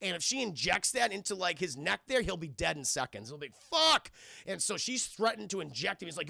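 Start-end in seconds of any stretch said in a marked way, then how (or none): 3.7-4.1 high, loud burst; imitated yell of alarm; retold panicked curse. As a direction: shout it as an acted outburst. Retelling panicked threat reaction.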